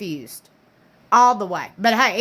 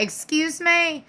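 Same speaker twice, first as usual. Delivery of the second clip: sassy; 5 semitones higher, much slower than usual. Retold or imitated. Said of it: "She's gonna be like".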